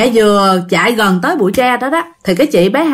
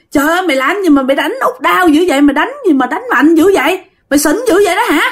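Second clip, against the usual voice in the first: tag; 7 semitones higher, faster than usual. Acted. Mother confronts passenger who hit her.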